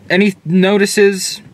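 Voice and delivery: shivering, words stumbling from cold; too cold to talk properly; freezing cold. Real, not acted. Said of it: "I'm freezing".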